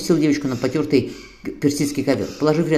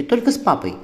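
put-on high whiny demand from a small girl; pouting toddler insisting; bossy little princess; 6 semitones higher than usual. A narrator's reading. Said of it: "капризно сказала Анита".

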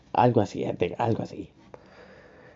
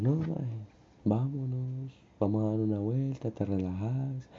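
soft reassurance, easing off; quiet, consoling tone; soothing friend; 3 semitones higher, 7 dB quieter than usual. Retold or imitated. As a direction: gently coax an upset buddy. Friends calming him, quoted.

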